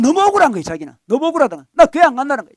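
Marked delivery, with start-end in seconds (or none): 1.7-2.5 loud, indignant complaint; the offended elder son refusing to go; elder son's loud resentful outburst; sulky protest. Acted.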